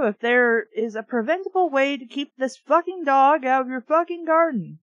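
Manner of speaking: exasperated aside; irritated rant. Real, not acted. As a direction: vent at the dumb plot. Reader irritated at the story.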